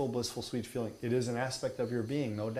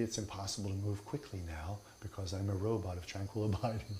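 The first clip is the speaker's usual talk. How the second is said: mock robotic guru; 4 dB quieter than usual. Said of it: "they can't move quickly".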